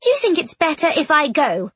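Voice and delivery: high, tense, hurt questioning; tight ghostly voice. A narrator's reading. Ghost girl challenging her dearest friend, voice tight. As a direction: press the question in a high, strained voice. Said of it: "ghostly voice was tight".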